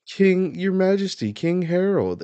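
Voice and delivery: high, loud cry to a king; alarmed calling out. Acted. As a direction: play frantic subjects calling their ruler. Acted subjects crying out to king.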